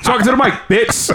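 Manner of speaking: laughing while mimicking; laughing imitation. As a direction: giggle through the quote. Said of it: "why you talk to me like that".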